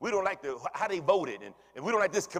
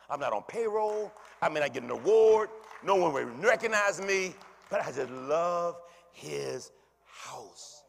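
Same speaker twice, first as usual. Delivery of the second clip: fervent declaration; 6 dB louder, slower than usual. Real, not acted. Preacher surges after hush.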